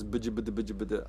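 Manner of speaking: monotone nonsense babble; childish mock-foreign gibberish. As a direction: babble as a kid faking a language. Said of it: "our language was".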